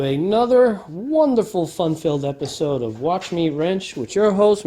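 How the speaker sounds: tongue-in-cheek enthusiasm; sarcastic. Real, not acted. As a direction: oversell it like a hammy show host. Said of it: "I'm just being sarcastic".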